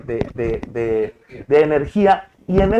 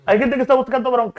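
mock dramatic; 7 semitones higher, faster than usual. Shown as a demonstration. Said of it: "repeats line in marked voice".

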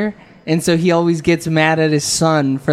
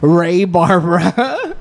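grand declaration; 4 semitones higher, slower than usual. Retold or imitated. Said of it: "It was just like".

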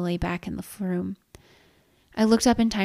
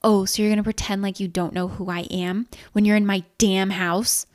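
indignant, louder accusation; angry, punched-up challenge; rising rage; 4 dB louder than usual. Acted. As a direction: let the rage build as you accuse. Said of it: "the rage rising in her voice".

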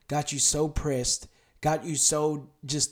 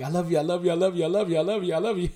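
quick, eager, tumbling I love you repeats; excited racing heartbeat; much faster than usual. Acted. God's heart answering the listener, quick and excited. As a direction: let it speed up like a racing heart. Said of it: "his heart rate gets so excited".

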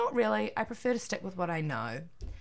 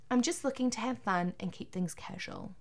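whisper; 3 semitones higher, 5 dB quieter than usual. Acted. Reading quiz answer.

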